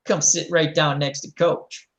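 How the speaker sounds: mock sweet coach. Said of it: "Don't I go".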